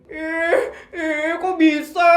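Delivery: high, slow, sing-song squeal; squealing envy. Acted. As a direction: gush with jealous delight. Friends envious of arranged match.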